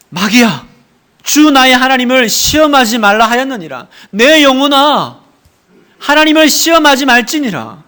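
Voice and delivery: loud, bold rebuke of the devil; proclaimed shout. Shown as a demonstration. Pastor showing the church how to shout at the devil, bold and loud. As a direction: cry it out against temptation. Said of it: "그때 외치세요".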